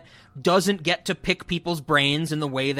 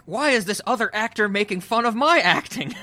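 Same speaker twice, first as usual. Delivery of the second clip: higher-pitched imitation of an annoyed actress; mock indignation; 7 semitones higher than usual. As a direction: complain in a raised, put-on voice. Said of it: "actually made her mad".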